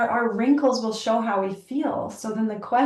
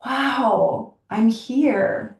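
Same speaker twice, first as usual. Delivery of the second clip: higher, bright mock wonder; delighted wonder; 4 semitones higher, slower than usual. Woman seeing her aging face, mock delighted wonder. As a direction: marvel at it, light and higher. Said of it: "I'm like".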